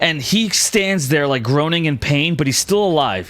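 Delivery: vivid battle scene-setting, driving on; dramatic game master narration. Acted. Game master describing an arrow kill to the archer, dramatic narration.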